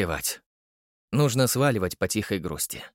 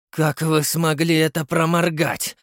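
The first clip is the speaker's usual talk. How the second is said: higher, louder angry outburst; flaring up; 5 semitones higher, 4 dB louder than usual. Acted. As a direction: snap at him in sudden anger. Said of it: "вспылил Черчесов". (вспылив)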